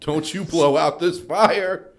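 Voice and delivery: slow, drawn-out hype with a laugh; building mock warning. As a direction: stretch it out, winding up to yell. Second take, building into wrestler bit.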